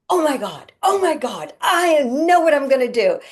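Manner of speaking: high, loud and bursting with excitement; excited young spirit. Acted. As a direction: blurt out the big idea, thrilled. Eager young spirit announcing plan.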